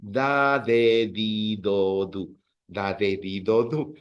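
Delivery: "Da, de, di, do" with a soft breathy d like English th; soft fricative d drill. Shown as a demonstration. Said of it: "the sound is a little bit more fricative".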